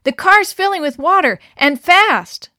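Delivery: high, loud commanding call; urgent order. A narrator's reading. Mother to daughter in sinking car, loud order. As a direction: hurry her out now. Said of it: "ordered her mother".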